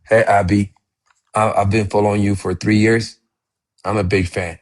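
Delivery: a touch stiff and reserved, lightly imitating; stiff formal greeting. Shown as a demonstration. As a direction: recite it politely, like a nervous student. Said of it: "you're just speaking so formal".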